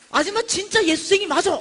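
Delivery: high, shouted endorsement; imitated loud acclaim. Gruff vendor acknowledging preacher's faith, shouting praise. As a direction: proclaim it with full conviction. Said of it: "이런 거야".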